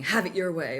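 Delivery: lightly put-on American slogan; touch of American ad-speak; American accent. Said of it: "they just have an American accent to them".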